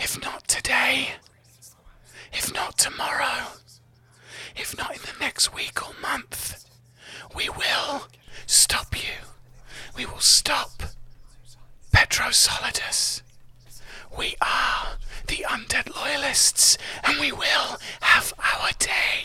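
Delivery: breathy, shadowy whisper. Narrator voices a defeated mind shadow speaking inside a hero's head, whispering mind shadow voice. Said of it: "You hear this mind shadow's voice within your head whisper".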